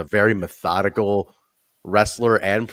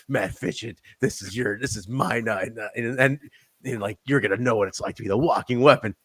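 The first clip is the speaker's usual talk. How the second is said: intense promo; 3 dB quieter than usual. Retold or imitated. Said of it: "he's intense".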